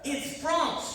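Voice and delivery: put-on "French" stressed in a thick French accent; fake French accent. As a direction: correct them firmly, leaning on "French", French accent. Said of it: "It sounds German, right?".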